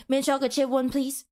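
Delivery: "Mint chocolate chip one, please" rattled off; quick order. Acted. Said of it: "you said that so freaking quickly".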